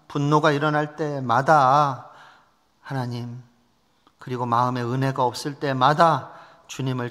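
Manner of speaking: measured, level-pitched public prayer; closing prayer. Real, not acted. Pastor prays to God for the young people, solemn petition. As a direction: pray solemnly, phrase by phrase.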